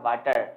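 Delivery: "वाटर" with an open aa vowel, vaa-tar; wrong pronunciation. Shown as a demonstration. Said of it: "ये pronunciation भी गलत है". ("वाटर" को 'आ' की आवाज़ से बोलें)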